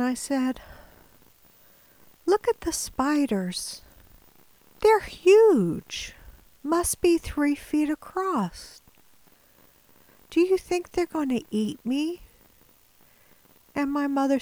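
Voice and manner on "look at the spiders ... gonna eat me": higher, dreamy rambling with a sudden burst on huge; a sick kid seeing things that aren't there; feverish delirium. Retold or imitated. Delirious son asking mother about giant spiders, high rambling.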